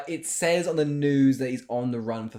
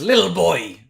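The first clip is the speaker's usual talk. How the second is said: loud attempt at a Swedish-sounding accent; mock Swedish-like accent; 3 semitones higher, 7 dB louder, slower than usual. Co-host trying the film's accent, Swedish-like mimicry. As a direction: lightly imitate an odd Swedish-like accent. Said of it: "It's like Swedish".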